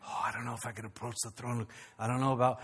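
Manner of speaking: doubtful worshipper, barely voiced; timid unworthy voice. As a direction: shrink away from the throne. Voicing an unworthy churchgoer.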